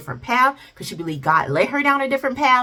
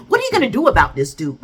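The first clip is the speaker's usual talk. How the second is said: wife's challenge; 3 semitones higher, 3 dB louder, faster than usual. Acted. Wife asks husband about trouble at home, pointed challenge. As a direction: press him for an answer, briskly. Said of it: "That's basically what she put out there".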